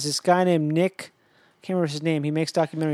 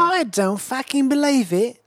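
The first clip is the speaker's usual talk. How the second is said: slow, high, drawn-out disbelief; 7 semitones higher, slower than usual. Real, not acted. Told the Olympics are near Portland, slow high disbelief. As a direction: stretch it out, higher, can't believe it.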